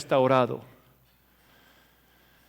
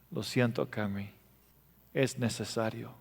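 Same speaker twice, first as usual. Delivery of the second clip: corazón quebrantado; 3 semitones lower, 9 dB quieter than usual. Retold or imitated. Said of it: "con un corazón quebrantado".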